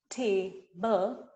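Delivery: table said with two clear chin drops; chin-drop syllables. Shown as a demonstration. Teacher showing chin drops, two careful beats. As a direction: mark both beats of table. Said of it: "If you look at my chin".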